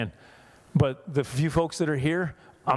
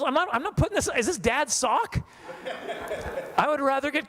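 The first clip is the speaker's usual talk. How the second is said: laughing disgust; 11 semitones higher than usual. Real, not acted. Disgusted at sock mask.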